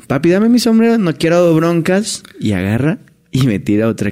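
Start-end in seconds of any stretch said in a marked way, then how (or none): 0.1-2.2 higher, pushed request, holding back anger; strained plea. Retold or imitated. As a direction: ask again with patience wearing thin. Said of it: "Y yo". (ruego tenso, más agudo, conteniendo el enojo)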